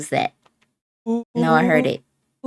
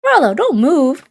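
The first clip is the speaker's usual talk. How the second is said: urgent warning; 9 semitones higher, 6 dB louder than usual. Acted.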